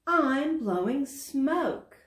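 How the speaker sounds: high and slow, full of wonder; a young dragon thrilled by his smoke; amazed. Acted. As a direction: savor each word in awe.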